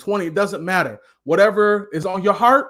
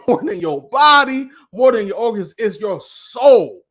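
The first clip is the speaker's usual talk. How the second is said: louder, rising fervour up to soul; passionate yelling; 3 semitones higher, 5 dB louder than usual. Real, not acted. Coach fired up about the soul, yelling passionately. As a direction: preach it out, building to the word soul. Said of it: "I know I'm yelling".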